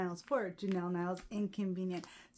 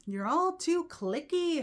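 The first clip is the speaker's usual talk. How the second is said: mock snooty jab; 9 semitones higher, 5 dB louder, slower than usual. Mocking West Coast gays.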